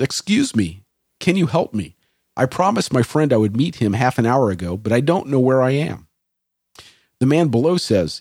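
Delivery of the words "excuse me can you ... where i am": usual speaking voice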